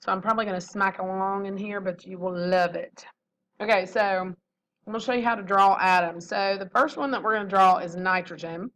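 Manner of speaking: talking while chewing gum. Real, not acted. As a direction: gum in the mouth, slight smacking. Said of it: "I have a piece of gum in my mouth".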